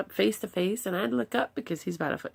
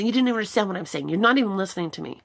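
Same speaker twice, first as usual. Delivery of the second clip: put-on fast, louder teen protest; mock frustrated son; 4 dB louder, faster than usual. Son protesting to his mom, fast and louder. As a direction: rattle it off like an annoyed teenager.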